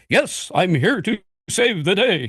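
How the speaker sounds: put-on grand, booming, slow stentorian hero voice. Showing the kind of part a voice actor was needed for, big stentorian voice. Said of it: "somebody with a big stentorian voice".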